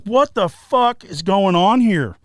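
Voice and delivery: loud and slow, stunned; shocked disbelief. Retold or imitated. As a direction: say it like you can't believe it. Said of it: "And I'm like".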